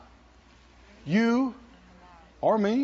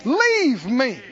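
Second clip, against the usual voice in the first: much higher and louder, slow rebuke; preacher rebuking fear aloud; commanding fear to leave; 6 semitones higher, 4 dB louder, slower than usual. Shown as a demonstration. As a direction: order fear out with full authority. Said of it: "And I'm saying".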